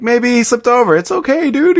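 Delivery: quoting the Dude. Retold or imitated.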